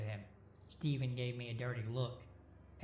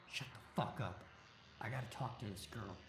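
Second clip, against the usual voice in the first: demanding; 4 dB quieter than usual. A narrator's reading. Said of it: "Steven demanded".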